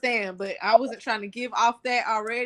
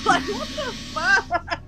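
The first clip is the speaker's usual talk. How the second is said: laughing; 7 semitones higher, slower than usual. Real, not acted. Laughing after swallowing the water.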